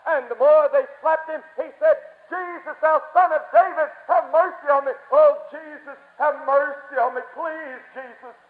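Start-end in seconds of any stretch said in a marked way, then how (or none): 2.3-8.3 raised, pleading cry for mercy; Bartimaeus, desperate cry. Acted. Blind beggar begs Jesus despite blows, desperate pleading. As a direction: plead urgently, softening on the final please. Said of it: "he cried out in desperation".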